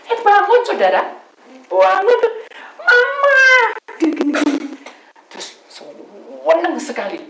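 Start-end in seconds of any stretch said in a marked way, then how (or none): 0.1-2.3 loud, high joyful cry; excited shout. Retold or imitated. Miracle, deer comes alive. 2.8-3.4 put-on very high, loud child's cry; fawn calling mama. Fawn calls its mother. 4.0-4.7 excited. Retold or imitated. Acting out the fawn moving.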